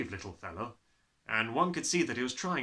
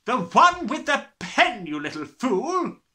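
slow bellowing; 12 semitones higher, 13 dB louder, slower than usual. Acted. Trunchbull shouting insult.

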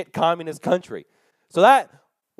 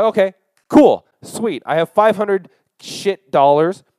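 loud mock-upbeat, higher; sarcastic cheer; 6 semitones higher, 7 dB louder, slower than usual. Broke traveller mockingly cheering his small cash withdrawal. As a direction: fake celebrate the junk money.

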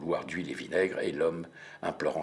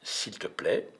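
calm; 3 semitones higher, slower than usual. Acted. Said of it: "je reste calme".

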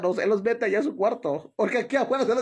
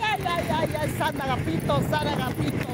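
high, urgent plea to a saint; fearful pleading prayer; 4 semitones higher than usual. Real, not acted. Woman praying aloud to saint, scared of falling. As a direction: beg San Agapito for mercy.

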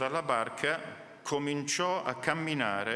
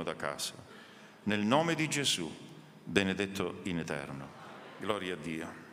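prayer. Acted. Pastor prays over congregation before the sermon, hushed devout prayer. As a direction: pray humbly over the gathered church.

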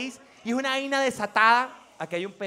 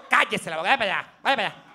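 scolding adult; 5 semitones lower than usual. Retold or imitated. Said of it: "cuando uno decía".

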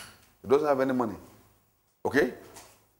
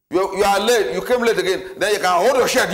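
sharp accusing scold, a bit louder; 2 semitones higher, 3 dB louder than usual. Acted. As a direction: scold him for coming home late. Preacher acts out scolding a latecomer.

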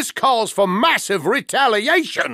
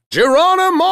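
leaping yell; 10 semitones higher, 4 dB louder, faster than usual. Acted. Leaping into danger.

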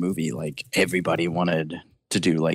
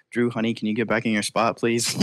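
imitating Spielberg; 4 semitones higher than usual. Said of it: "then you hear Spielberg go".

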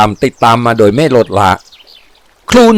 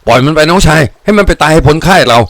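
raised-pitch order to the men; higher, firm leader's call; commanding order; 6 semitones higher than usual. A narrator's reading. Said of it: "ปฏิบัติตามคำสั่ง".

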